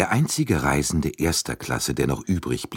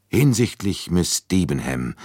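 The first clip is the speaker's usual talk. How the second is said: a touch awkward opening; 3 semitones higher, 4 dB louder than usual. Acted. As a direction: start clumsily, then stall. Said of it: "begann er linkisch".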